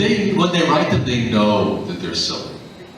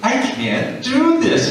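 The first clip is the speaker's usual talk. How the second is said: laughing protest; 9 semitones higher, slower than usual. Retold or imitated.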